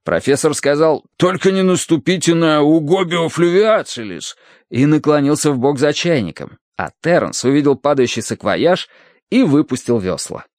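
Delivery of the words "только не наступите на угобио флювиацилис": urgent warning. A narrator's reading. Professor warns the boatmen about his fish, urgent warning. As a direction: warn them off in a higher voice.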